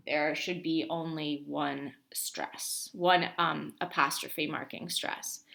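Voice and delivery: slow, deliberate restatement; emphatic repeat. Real, not acted. Teacher repeating an important rule to students, slow and emphatic. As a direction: spell it out slowly for emphasis. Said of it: "that's important, so I'm gonna repeat it".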